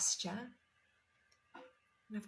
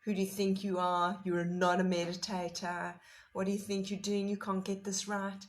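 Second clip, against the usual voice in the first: mock inner critic; 6 dB louder than usual. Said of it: "and this inner voice, this criticism that comes to tell us".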